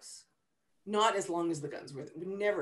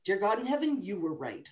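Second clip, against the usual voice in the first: shocked realisation. Shown as a demonstration. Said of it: "or less frequently".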